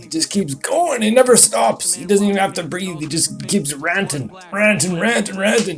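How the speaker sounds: loud, high sarcastic rant; mock excitement. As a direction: build it up breathlessly. Riffing on nonstop ranting.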